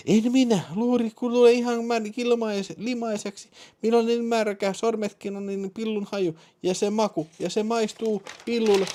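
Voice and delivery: very high falsetto woman's voice; excited woman caller. Acted. (kiihtynyt nainen korkealla falsetilla)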